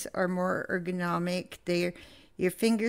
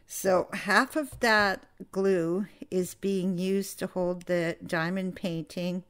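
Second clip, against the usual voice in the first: hiccups breaking the words; hiccuping. Real, not acted. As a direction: talk through the hiccups. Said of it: "I have the hiccups again".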